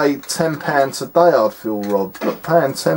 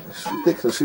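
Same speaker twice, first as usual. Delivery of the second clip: whispered aside, unvoiced and soft; muttered under breath; 7 dB quieter, much faster than usual. Real, not acted. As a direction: mutter it to yourself in disbelief. Muttered aside at the bad game.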